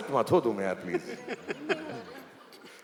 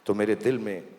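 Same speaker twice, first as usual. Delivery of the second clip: romantic line; 5 semitones lower than usual. Shown as a demonstration. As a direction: murmur it to your wife. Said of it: "मेरे साथ बोलो".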